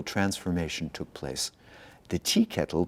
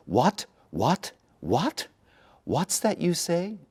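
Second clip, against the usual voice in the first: startled; 9 semitones higher, slower than usual. Acted. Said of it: "asked the priest again".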